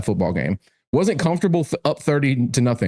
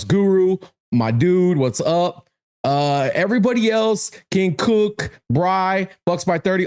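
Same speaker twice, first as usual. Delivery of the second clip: shoutout; 5 semitones higher than usual. Real, not acted. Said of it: "shouting out chat names".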